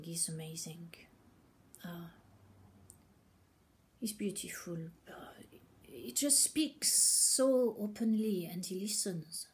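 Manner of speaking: breathy hushed praise of a favourite speaker; hushed whisper. Real, not acted. Praising Thomas Dassembourg to Alexandra, whispered.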